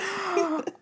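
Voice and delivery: gasp, thrilled by the news; excited gasp. Real, not acted. Reacting to Lin-Manuel news.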